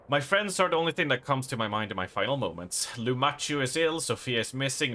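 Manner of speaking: fast, fading letter reading; reading a farewell letter. Acted. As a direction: read the dying reporter's words. Reads the reporter's last letter.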